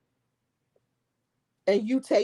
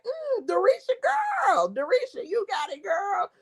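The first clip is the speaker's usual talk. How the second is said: high, sing-song mock rave of a reviewer; imitating a food taster; 12 semitones higher than usual. Vlogger imitating Lene tasting the pickles, high sing-song. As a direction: mimic her praising the name without saying she liked it. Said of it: "And she was like".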